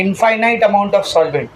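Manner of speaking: infinite amount of solvent drawn out slowly; slow key phrase. Shown as a demonstration. Teacher explaining dilution to students, drawn out. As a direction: stretch each word for the class.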